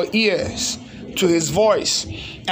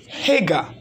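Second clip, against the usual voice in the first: angel calling Hagar; 3 semitones lower than usual. Acted. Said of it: "he called at her and said".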